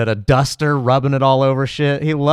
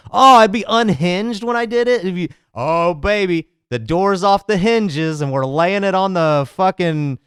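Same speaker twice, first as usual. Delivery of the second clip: higher, hammed-up unhinged host voice, stretching words; mock unhinged rant; 4 semitones higher than usual. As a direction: play a crazed headline host, drawling "baby". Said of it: "offer your unhinged commentary".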